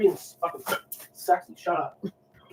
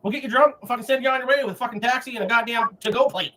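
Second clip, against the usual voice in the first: ranting at full voice in bursts; 3 semitones higher than usual. Real, not acted. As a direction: yell it out, raucous and aggressive. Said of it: "Now he's just screaming".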